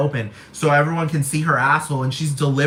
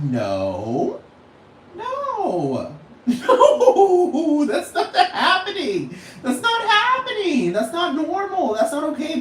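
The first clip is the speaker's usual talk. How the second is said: high laughing no, no; laughing refusal; 11 semitones higher, much slower than usual. Retold or imitated. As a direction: laugh through the protest. Imagined refusal at kids' presence.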